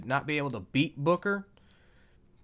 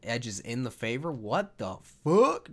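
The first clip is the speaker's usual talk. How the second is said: puzzled disbelief; 3 semitones lower than usual. Pretend. Questions his own announcer's phrase.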